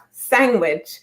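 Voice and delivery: SANDWICH said as "sang-wich"; Jamaican-accented word. Retold or imitated. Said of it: "I've been saying it with a Jamaican accent".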